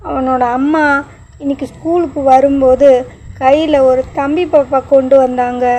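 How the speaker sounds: put-on boy telling his father about his friend; child's baby talk. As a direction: talk like a little kid telling dad a secret. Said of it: "Ashwin தன்னுடைய மழலை மொழியில்".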